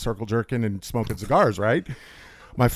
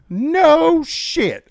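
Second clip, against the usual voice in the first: cashier voice; 6 dB louder than usual. Retold or imitated. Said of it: "and she goes".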